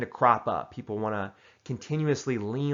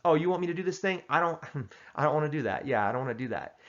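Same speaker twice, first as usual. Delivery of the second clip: chuckling decline; 3 semitones higher, faster than usual. Shown as a demonstration. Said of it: "you can even chuckle".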